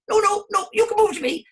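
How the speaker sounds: very high, loud stubborn flower; squeaky flower, no way; high insistent flower. Acted. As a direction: refuse like a bossy little flower. Flowers squabble.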